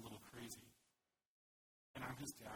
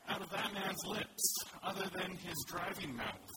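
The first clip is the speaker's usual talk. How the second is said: loud, high, slow exclamation in awe; excited shout; 7 semitones higher, 11 dB louder, slower than usual. Real, not acted. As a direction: belt it out like it's the most amazing line ever. Preacher marvels at a man's words.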